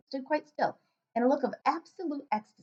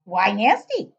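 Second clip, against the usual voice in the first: booming, slow giant with odd grammar; loud giant voice; 11 dB louder, slower than usual. Acted. Giant questioning the girl, booming and puzzled.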